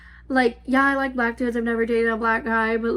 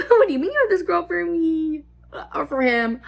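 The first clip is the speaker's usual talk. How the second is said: laughing disbelief; 4 semitones higher than usual. Retold or imitated. Retold shocked reply, laughing.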